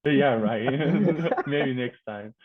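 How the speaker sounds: laughing it off, loud and high. Real, not acted. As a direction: brush it off with a laugh. Declines singing request, laughing.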